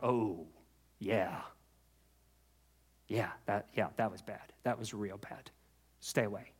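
low, very soft, chastened; acted subdued admission, almost to oneself; sheepish realization. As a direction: let it sink in quietly. Chastened person recalling, acted.

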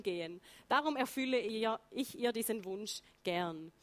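measured reading of a baptism address; reading aloud. Retold or imitated. Speaker quoting the pastor's speech at her baptism, measured reading. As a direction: read out the pastor's words in careful Standard German.

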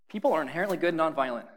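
fast mock-cheerful report; sarcastic. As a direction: say it as if it's obviously true. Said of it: "I'm being sarcastic".

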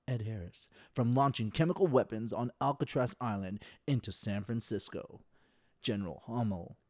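measured radio synopsis read, names given weight; lightly put-on NPR voice. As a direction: read it out like a public radio host. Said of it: "read it in my N P R voice".

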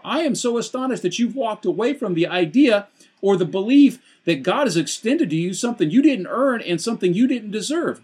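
high-pitched preaching of Paul's dismay; astonished Paul. Retold or imitated. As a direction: press Paul's amazement on the listeners.

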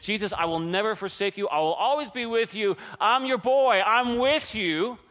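a loyal vow building in force; bold pledge. Acted. Preacher voicing Peter's promise to Jesus, fervent pledge.

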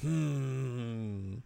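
carefree Yui. Retold or imitated. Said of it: "And Yui's like".

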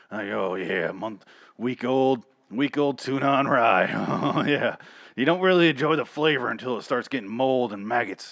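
lightly voiced scavenger. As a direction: lightly savor the rotten tuna. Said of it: "someone is just like".

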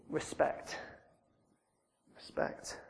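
whispered, solemn and reverent; hushed whisper. Real, not acted. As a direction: breathe the word with awe. Preacher answers his own question.

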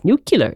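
nuclear said as "NOO-kyuh-lur"; Simpsons-style mispronunciation. Shown as a demonstration. Songwriter explaining the song title's spelling, Simpsons-style mispronunciation. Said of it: "half the Simpsons thing of nuclear".

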